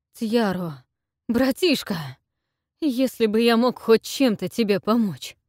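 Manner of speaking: high, loud grief; desperate lament; anguished cry. Acted.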